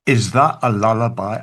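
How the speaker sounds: a spoken lyric, weighty and unhurried; recited poem. Acted. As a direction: read the verses like a heartfelt poem, line by line. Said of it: "This is what I say".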